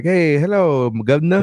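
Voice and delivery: mock Cockney greeting; lightly put-on English accent; fake British accent. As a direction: ham up a posh English hello. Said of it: "a singer first moved to Europe".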